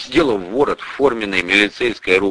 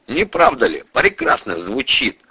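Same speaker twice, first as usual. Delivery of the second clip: ordinary delivery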